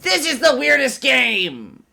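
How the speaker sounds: loud, high, drawn-out exclamation; mock bewildered yell. Baffled player reacting to the game, mock astonished yell. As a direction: yell it slowly in hammed-up astonishment.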